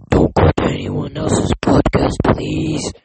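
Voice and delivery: whispered plea; pleading whisper. Real, not acted. Host begging listeners to stay, whispered. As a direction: breathe it out as a secret plea. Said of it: "Like I said".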